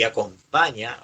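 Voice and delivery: acompaña said slowly and deliberately; slow, emphatic acompaña; stress on acompaña. Shown as a demonstration. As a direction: draw out acompaña so it sticks. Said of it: "no se olviden de esta palabra".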